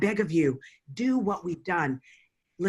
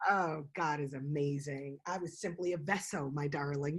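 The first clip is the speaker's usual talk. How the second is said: choked up, tearful; 3 semitones lower, 6 dB quieter than usual. Real, not acted. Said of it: "You got me over here bawling".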